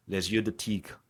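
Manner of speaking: put-on quoting a French phrase in a French accent. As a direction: say it like the French mentor would. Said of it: "In the French accent".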